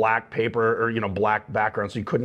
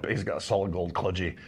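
lower, softer touch of Scottish; Scottish accent; 4 semitones lower, 5 dB quieter than usual. Retold or imitated. Actor repeating the line he added, light Scottish accent. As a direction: drop the ad-lib in light Scots. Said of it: "which is Scottish for toilet".

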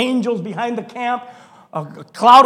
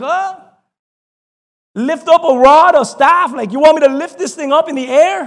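incredulous; 4 semitones higher, 4 dB louder than usual. Acted. Incredulous reply to God.

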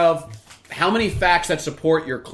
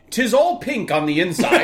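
higher, grand quoting tone; mock Jefferson quote; 8 semitones higher, 3 dB louder than usual. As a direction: recite it like a founding father. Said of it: "my favorite Thomas Jefferson quote".

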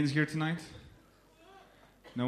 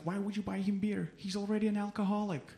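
imitated angry woman; 8 semitones higher, 4 dB quieter than usual. Woman scolding him for buying beer, mock angry. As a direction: put on an indignant woman's higher voice. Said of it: "she got so angry".

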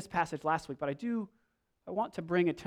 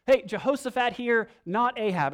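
high, loud calling out; mock scream; 6 semitones higher, 7 dB louder than usual. Preacher imitating Jehoshaphat calling to attackers, mock scream. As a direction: call out to be spared, raised and punchy. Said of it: "maybe he screamed out something like".

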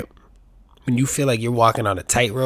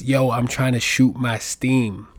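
slow mock line; slower than usual. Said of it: "Who says".

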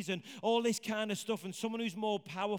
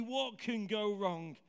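drawn-out knowing irony; slow it down, let the irony land; dry and ominous, slower; ironic, slowed; slower than usual. Acted.

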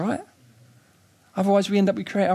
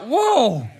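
mock stern whoa; 6 semitones higher, 3 dB louder than usual. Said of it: "God's tone can come across quite like".

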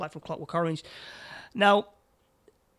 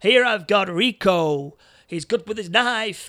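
louder, showy host voice; game show host; 4 semitones higher, 7 dB louder than usual. Retold or imitated. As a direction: welcome the robbery like a TV host. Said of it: "he's like a game show host".

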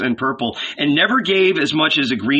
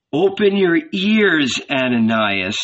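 raised, slow call to attention; solemn summons; 5 semitones higher than usual. A narrator's reading. Jesus summons old Ananias to hear his parable, solemn. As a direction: call the listener to hear, pitched up.

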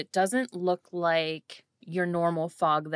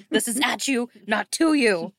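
"at" and "to" punched loud and high; loud, emphatic correction contrasting "at" with "to"; stress on contrast; 6 semitones higher, 6 dB louder than usual. Acted. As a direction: hit "at" and "to" as opposites. Joking contrast of two words.

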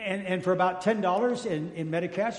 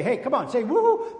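rallying the crowd; 5 semitones higher, 4 dB louder than usual. Retold or imitated. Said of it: "I'll have them all say".

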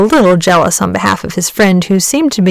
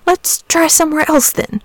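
patient, much higher and lilting; raised pitch, mild forbearance; 9 semitones higher than usual. A narrator's reading. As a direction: humour them patiently. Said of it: "said Saint George patiently".

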